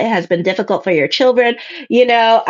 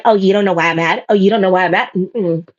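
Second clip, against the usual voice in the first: understated mock indignation, simmering; mock pissed-off; 3 semitones lower than usual. Client confronts returned ex about being mad, mock pissed-off. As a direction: imitate someone mildly pissed off. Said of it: "like you pissed".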